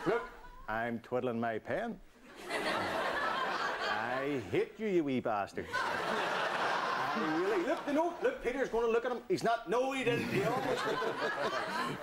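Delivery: giggly running commentary, breaking up between words; laughing at the picture of the politicians; laughing through it. Acted. Commentary to the audience, laughing all through.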